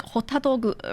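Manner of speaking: "Hotadogu" imitated in Japanese syllables; Japanese pronunciation. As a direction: mimic a Japanese-accented hot dog. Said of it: "she does say it like that".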